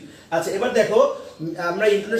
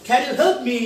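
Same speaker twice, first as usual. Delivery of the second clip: slow "can you help me?" raised through "help me"; rising tune; 4 semitones higher, much slower than usual. Shown as a demonstration. Teacher demonstrating a yes-no question, rising "help me". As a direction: lift "help me" upward. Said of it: "rising হবে".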